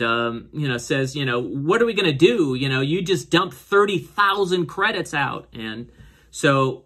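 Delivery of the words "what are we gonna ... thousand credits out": mock exasperated scolding, higher and animated; half-acted, high-pitched reproach; retold upset. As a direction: imitate a big sister telling off the younger one. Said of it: "Rafa's really upset at, at her, at her little sister".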